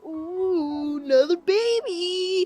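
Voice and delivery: put-on high, loud, slowed-down baby squeal; excited mother. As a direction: squeal it like a mom thrilled by a new baby. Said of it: "she's like".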